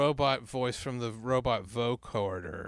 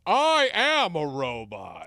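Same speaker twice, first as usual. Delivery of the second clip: slow, loud, lightly robotic; slow robot monotone; 3 semitones higher, 5 dB louder, slower than usual. Retold or imitated. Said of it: "a robot goes".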